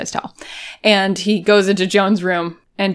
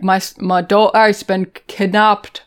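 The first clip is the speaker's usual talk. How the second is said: badly faked Scottish; poor Scottish impression of a father; attempted Scottish accent. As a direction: stumble through it in mock Scottish. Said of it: "I'm sorry to everyone from Scotland".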